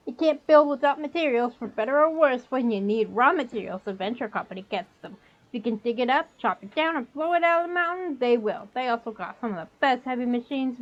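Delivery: put-on goblin with a New York accent; fast-talking New York goblin dealer. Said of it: "Trying to do the New York accent".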